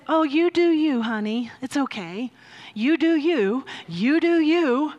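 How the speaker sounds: mildly voiced sugary indulgence; lightly mock a permissive, honeyed reassurance; sweet, indulgent. Sweet blob of love indulging someone, mock-sweet and mild. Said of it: "sweet little blob of nothingness that says".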